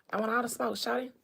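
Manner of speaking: lightly voiced A-Town rapper; a hint of King's swagger; light Atlanta rapper impression. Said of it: "King said".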